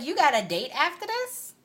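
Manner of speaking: indignant challenge; sharp indignant question. Retold or imitated. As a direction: demand an answer with rising disbelief. Confronting him, rising anger.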